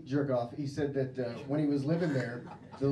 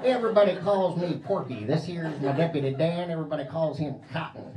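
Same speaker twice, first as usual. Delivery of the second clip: redneck cop; 4 semitones higher, 6 dB louder than usual. Pretend. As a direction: introduce yourself like a proud redneck cop. Plays redneck cop character.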